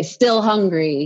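put-on slow eager toddler read-along; child reading along. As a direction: beat mom to the line. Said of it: "or to say".

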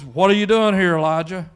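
loud, forceful question as God; lightly voiced God, hitting it hard. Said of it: "When God speaks, he says".

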